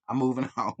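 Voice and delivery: giggling mid-word; catchphrase cracked by laughter; laughing through it. Real, not acted.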